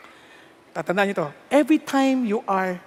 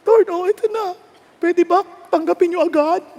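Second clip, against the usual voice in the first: tag; 7 semitones higher than usual. Acted. Wife eagerly offering husband to God.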